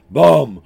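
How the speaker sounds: loud imitated thud of a big goat's step; heavy footstep boom. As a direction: stomp it out with the voice.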